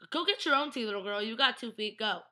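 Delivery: imitated bossy comeback; sassy retort. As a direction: tell someone off with playful sass. Acted snappy refusal of a request.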